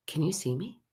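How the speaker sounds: lightly voiced small child, soft and tentative; timid little boy. Little spirit boy to the woman who looks at him, timid. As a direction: ask softly, as a shy child might.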